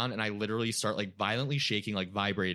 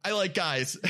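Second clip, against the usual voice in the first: high, laughing rush of the words; nervous laughing confession; 9 semitones higher, 4 dB louder than usual. Retold or imitated. Telling parents on the porch he likes guys, laughing. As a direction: blurt it out half laughing.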